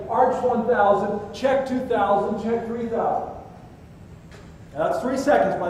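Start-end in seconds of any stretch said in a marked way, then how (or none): 0.1-3.3 measured training chant; drilled cadence. Shown as a demonstration. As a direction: spell out each count as an instructor teaches it. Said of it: "you throw your arms out and you say".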